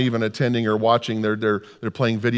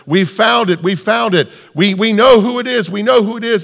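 louder, higher, urgent repeated cry; excited announcement; 10 semitones higher, 6 dB louder than usual. Acted. Staff member with a clipboard announces the find, excited. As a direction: burst out with breaking news.

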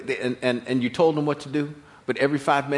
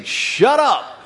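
blunt; 9 semitones higher, 7 dB louder than usual. Acted. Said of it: "nice religious way of saying".

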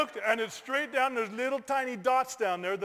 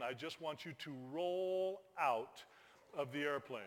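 calm instruction; 6 semitones lower, 11 dB quieter than usual. Retold or imitated. Instructor's calm order, then his protest.

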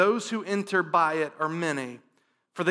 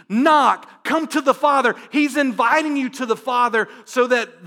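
loud, higher, urgent preaching; full-force preaching; 4 semitones higher, 5 dB louder than usual. Acted. Pastor urges his congregation to come to God, loud preaching. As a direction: drive it home to the room.

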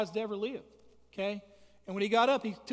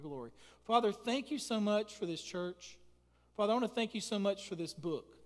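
earnest prayer; 3 dB quieter than usual. Acted. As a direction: pray humbly over the congregation. Pastor leads congregational prayer.

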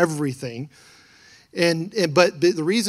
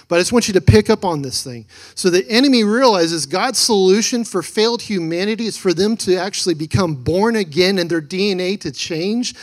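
preaching loud; 3 semitones higher, 5 dB louder than usual. Real, not acted. Preacher building to emphatic point.

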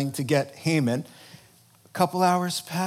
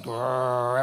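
mock growl; 5 semitones lower than usual. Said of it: "she's like".

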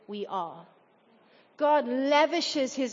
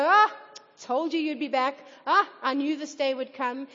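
finger-wagging scolding; 4 dB louder than usual. Acted. Preacher imitating a father who scolds his returning son, finger-wagging. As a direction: play at an accusing I-told-you-so. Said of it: "wag his finger in his face and go".

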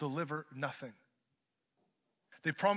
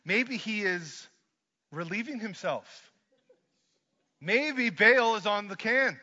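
loud, slow sarcastic jab; mocking taunt; 4 semitones higher, 7 dB louder, slower than usual. Elijah taunts the prophets about Baal, loud sarcastic mockery. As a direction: sneer that their god is busy. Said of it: "Then Elijah says this".

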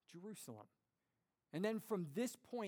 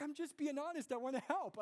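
higher, lightly voiced earnest wife; mock-innocent wife; wife's earnest reply; 8 semitones higher than usual. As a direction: answer sweetly and matter-of-factly. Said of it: "She's like".

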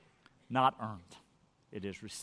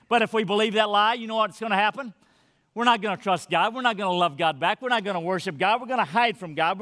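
quick, driving warning; fervent preaching; faster than usual. Acted. Preacher warning church, fast and fervent. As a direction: press the point fast.

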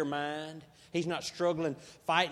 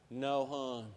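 firm; 6 semitones lower, 5 dB quieter than usual. Retold or imitated. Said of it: "something in my voice that she may have sensed a little energy".

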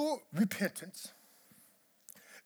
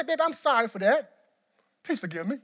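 hollow apology to wife; faster than usual. Retold or imitated. Husband to wife, brushing off with a quick sorry. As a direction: toss off an empty apology. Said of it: "not say".

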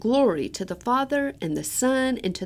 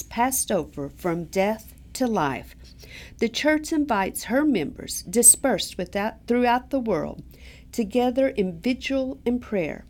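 solemn address. Acted. Opens the Easter vigil.

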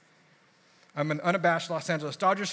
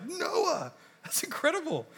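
much higher, laughing praise; delighted laugh; 12 semitones higher, slower than usual. Retold or imitated. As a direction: beam with delight through a laugh. Pastor praising Noah.

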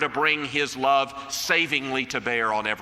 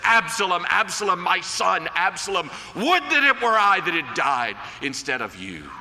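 David's grief; 3 semitones higher than usual. Retold or imitated. Preacher voicing David mourning Absalom, a grieving cry. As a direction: call out the name like a father mourning his son. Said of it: "he tears his clothes and he says".

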